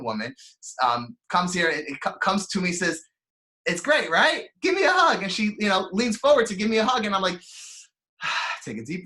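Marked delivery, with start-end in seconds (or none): 3.7-5.2 excited. Retold or imitated. Cheerful clerk offers a hug.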